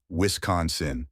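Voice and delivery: Wisconsin with stress on con: wis-CON-sin; stress on second syllable. Shown as a demonstration. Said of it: "with the emphasis on the second syllable con".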